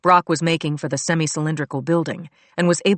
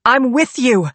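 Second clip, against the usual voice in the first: loud breathless answer, higher; panting; 8 semitones higher, 6 dB louder, slower than usual. A narrator's reading. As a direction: pant it out while running. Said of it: "I panted".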